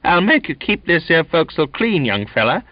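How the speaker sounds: high, loud threatening sailor; vicious snarl. A narrator's reading. Donkin threatening young Charlie, vicious snarl. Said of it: "he snarled viciously".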